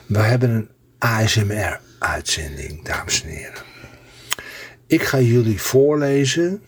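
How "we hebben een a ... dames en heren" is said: breathy hushed whisper; asmr whisper. Real, not acted. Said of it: "Je merkt ook aan mijn stem, dat ik ben wat zachter".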